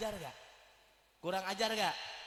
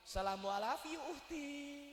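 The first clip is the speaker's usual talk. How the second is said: flirty greeting; 5 semitones higher than usual. Retold or imitated. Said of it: "giliran ngeliatin cabe-cabean syariah".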